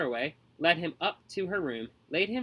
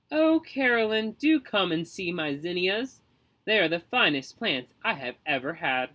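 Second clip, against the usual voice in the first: calling out; 3 semitones higher, 4 dB louder than usual. Acted. Neighbor called over the hedge.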